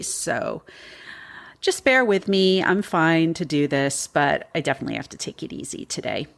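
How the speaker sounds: a bit groggy, post-vaccine tired. Real, not acted. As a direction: talk through groggy fatigue. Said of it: "if I sound a little groggy today".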